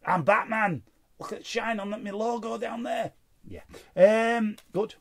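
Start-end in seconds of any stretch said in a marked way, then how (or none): 0.1-3.1 a bad Batman impression, mocking; playful failed superhero voice. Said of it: "Can't do his voice".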